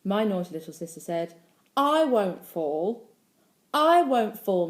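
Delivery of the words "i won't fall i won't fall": put-on loud, higher child's insistence; calling back. A narrator's reading. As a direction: call it back slowly and firmly as a little girl. Little sister calls back boastfully.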